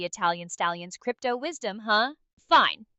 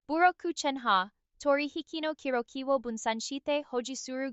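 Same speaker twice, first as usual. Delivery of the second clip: speaking Japanese; 5 dB quieter than usual. Pretend. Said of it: "please try to speak Japanese".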